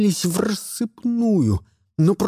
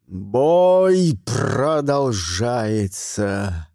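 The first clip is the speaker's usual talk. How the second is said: very slow, low booming battle cry; mighty roar; 8 semitones lower, much slower than usual. A narrator's reading. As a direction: roar it like an ancient warrior. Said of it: "заорал Гримуэль таким могучим голосом". (могучий рёв старого мага)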